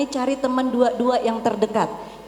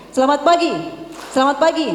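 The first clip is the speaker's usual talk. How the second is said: loud greeting; 2 semitones higher, faster than usual. Shown as a demonstration. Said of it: "cek fokusnya".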